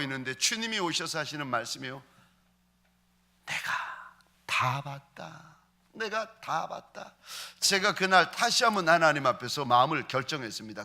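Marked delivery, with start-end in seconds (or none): 3.5-7.1 slow, soft, solemn divine voice; quiet voice of the Lord. Acted. The Lord comforts the praying pastor, soft and slow. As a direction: let each word fall gently and slowly.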